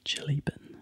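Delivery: "chili bin" in a Kiwi accent, a short i in both words. Shown as a demonstration. Kiwi repeating the word Australians mock, whispered Kiwi "chili bin". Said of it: "I'll say it again".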